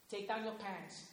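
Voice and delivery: low, very soft voice; hushed, eerie murmur. Retold or imitated. A disturbed mother murmurs to her son, low and very soft. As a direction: murmur it like a secret spell.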